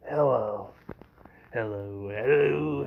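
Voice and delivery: a string of low character greetings; greeting creature heads. Acted. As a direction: play several heads saying hello. Several heads pop out, greeting.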